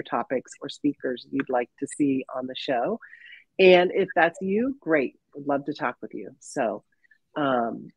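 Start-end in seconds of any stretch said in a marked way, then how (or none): 3.6-7.9 stuffy sinus voice; blocked nose, talking through congestion; congested. Real, not acted. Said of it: "so I sound congested".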